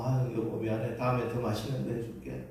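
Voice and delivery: soft, sweet wifely apology; a soothing wife making peace; gentle apology to husband. Retold or imitated. Wife soothing her grumbling husband, soft and sweet. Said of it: "그런 식으로 하는 거예요".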